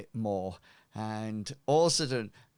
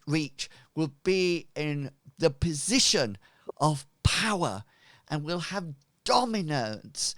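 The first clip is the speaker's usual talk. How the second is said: higher, louder welcoming address; grand cult leader; 6 semitones higher, 4 dB louder than usual. Acted. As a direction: greet your flock with pompous warmth. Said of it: "he then says".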